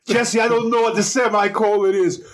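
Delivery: high, exasperated Austrian-accented impression; Schwarzenegger accent. Co-host plays the star confessing to his colleague, Schwarzenegger accent. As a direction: plead ignorance in a heavy Austrian accent. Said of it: "He typed it up in his accent".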